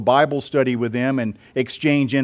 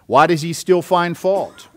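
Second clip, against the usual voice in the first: higher-pitched challenging question, lightly acted; objector's challenge; 4 semitones higher than usual. Preacher voicing Paul's objector to the church, lightly acted challenge. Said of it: "And then here's the objector".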